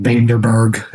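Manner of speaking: "Vanderberg" with an er in the middle; likely mispronunciation. Pretend. Co-host predicting their own slip, mispronounced. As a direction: say "Vanderberg" with a slipped-in r. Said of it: "I'm probably gonna be like".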